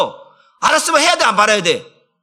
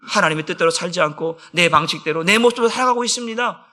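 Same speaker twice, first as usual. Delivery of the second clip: normal talking voice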